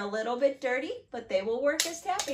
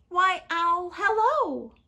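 high, loud sing-out greeting; chirpy mouse; 6 semitones higher, 8 dB louder, slower than usual. Acted. Mouse greets Owl in the trees, high and chirpy. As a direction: pipe up a big friendly hello.

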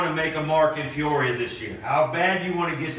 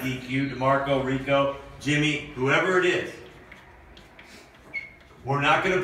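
pep talk; 3 semitones higher than usual. Acted. Coach fires up team.

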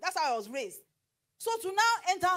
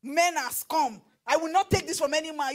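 defiant social media post; 2 semitones higher, 5 dB louder than usual. Retold or imitated. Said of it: "come on social media and say".

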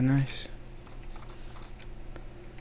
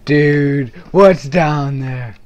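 alarmed; 3 semitones higher, 12 dB louder, much slower than usual. Real, not acted. Spots a pitch black hole.

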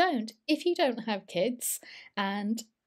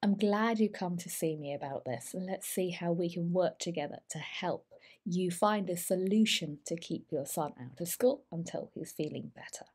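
encouraging, soft. Shown as a demonstration. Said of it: "try and encourage them".

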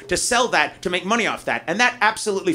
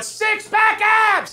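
mock boast; 13 semitones higher, much slower than usual. Comic mocking himself, bragging about six-pack abs. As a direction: stretch it out like a proud lie. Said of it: "That's like me going".

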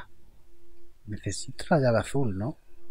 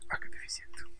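whispering; 6 dB quieter, faster than usual. Real, not acted. Struggling with the level.

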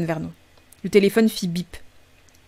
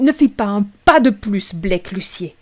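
a firm order, louder and slower at the start; fierce big-sister voice; 4 dB louder, slower than usual. Acted. Big sister Rachel orders her little brother to freeze, fierce and firm. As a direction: stop him dead with a commanding tone. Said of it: "sa voix la plus féroce".

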